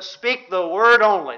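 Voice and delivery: "word" made the prominent beat of the phrase; stress on WORD. Acted. Centurion pleading with Jesus, stress on "word". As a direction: lean firmly on "word". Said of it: "Notice emphasis on the word".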